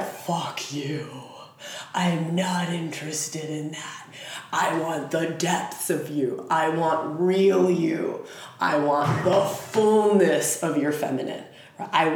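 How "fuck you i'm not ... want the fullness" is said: low husky whisper of a dark god; low whispered Pluto. Acted. Pluto telling you he wants your depths, low whisper. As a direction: breathe it low and intimate. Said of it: "And he's like".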